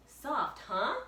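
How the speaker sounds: high bright little sister; cheerful girl. Acted. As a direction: prod him playfully, high. Annie voiced.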